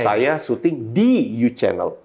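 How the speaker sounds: "di" drawn out and lifted, slow sentence; stress on DI. Shown as a demonstration. Trainer showing word emphasis, stress on "di". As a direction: stretch "di" hard before "U Channel". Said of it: "menekankan satu kata dalam kalimat".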